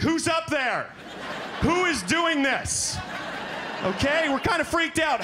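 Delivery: high panicked yelp; shrill-edged panic, laughing through it; freaked-out passenger. Acted. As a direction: squeal it like a terrified flyer. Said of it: "You freak, you're like".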